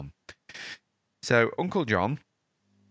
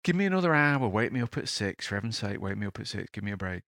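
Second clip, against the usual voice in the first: pleading tired uncle. Retold or imitated. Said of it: "He says".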